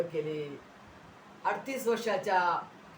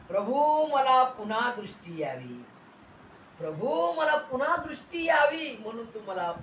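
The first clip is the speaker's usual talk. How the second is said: imitated plea; 3 semitones higher than usual. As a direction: beg the Lord as a blind man would. Blind man's plea voiced. (आर्त विनवणी)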